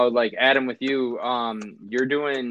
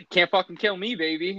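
higher, laughing as he boasts; laughing brag; 9 semitones higher, 4 dB louder than usual. Retold or imitated. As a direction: imitate him cackling his invincibility. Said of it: "like, laughing".

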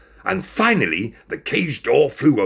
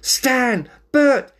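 high, loud happy calls; pitched-up cries of delight; excited; 6 dB louder than usual. A narrator's reading. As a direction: greet old friends excitedly. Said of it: "he said excitedly".

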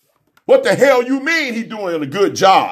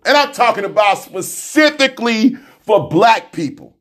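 ordinary talk, nothing marked

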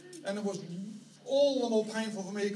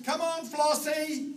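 slow, higher call through laughter; calling sheep by name; 6 semitones higher, slower than usual. Retold or imitated. Shepherd calls pet sheep by name, laughing call. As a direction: coax the pet lamb over, laughing. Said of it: "your voice was heard calling their names".

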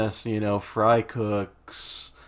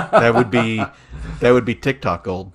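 laughing; 8 dB louder than usual. Real, not acted. Laughing at cat idea.

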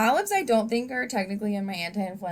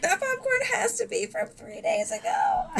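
mock disgusted; 3 dB quieter than usual. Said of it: "I was like".

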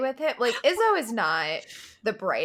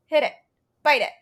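lightly voiced eager dog; egging on in a hint of a dog voice; 4 semitones higher, 8 dB louder than usual. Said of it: "looking at her like".

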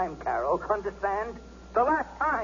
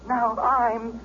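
bitter anger; 4 semitones higher, slower than usual. Acted. Bitter husband confronting wife.

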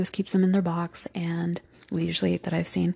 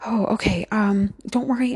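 tender reassurance; 2 semitones higher than usual. Retold or imitated. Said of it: "it's like".

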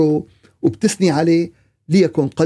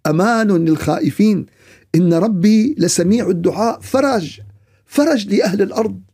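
sermon declamation. Real, not acted. Preacher urging listeners to trust their prayer, measured declamation. Formal preaching beside colloquial chat.

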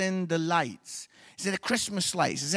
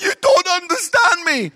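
mock wailing wife; 10 semitones higher, 11 dB louder than usual. Wife's complaint retold.

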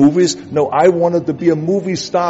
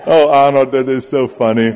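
mocking disbelief. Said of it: "their reaction was".

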